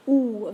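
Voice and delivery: a loud, wide-open "Ooh"; open French ou. Shown as a demonstration. Teacher stresses how open the sound is. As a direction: push out a big round "Ooh". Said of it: "very open".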